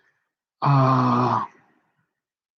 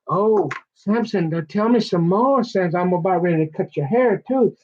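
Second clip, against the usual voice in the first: seductive Delilah; 3 semitones higher than usual. Retold or imitated. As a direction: tease him sweetly. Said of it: "she's smiling".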